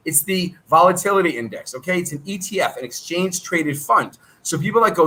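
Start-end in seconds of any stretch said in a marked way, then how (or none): 2.8-4.2 exchange traded fund said slowly, word by word; slowed down. Shown as a demonstration. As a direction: spell it out slowly for beginners. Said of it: "I'll slow it down".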